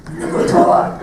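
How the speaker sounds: high, urgent comic voice; comic inner voice. Retold or imitated. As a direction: squeak it out desperately. Retold comic inner thought.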